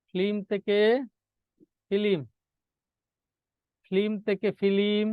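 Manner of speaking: deliberate ফিল্ম, flim first and fi-lim second; inserted vowel. Shown as a demonstration. Teacher repeats the example for a student, flim-to-filim contrast. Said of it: "মধ্য স্বরাগম".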